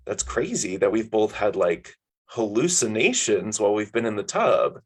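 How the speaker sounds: "hallucinations" leaned on hard; stress on hallucinations. A narrator's reading. Hoping a friend won't correct them, hard stress on "hallucinations". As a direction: lean heavily on the word "hallucinations", drawing it out. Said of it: "I leaned really hard on the word hallucinations".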